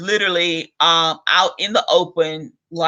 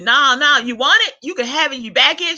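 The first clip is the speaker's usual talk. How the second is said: higher, a light imitation of a pushy drunk stranger; mock drunk woman insisting; 8 semitones higher than usual. Drunk bus passenger pushing a back scratcher, mock insistent. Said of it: "she insisted".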